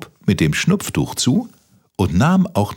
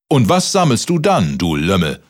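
giant yelling; 3 semitones higher than usual. Acted. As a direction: yell down at him. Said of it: "schrie der Riese".

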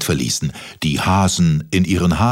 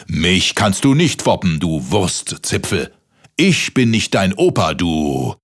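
growling giant. Acted.

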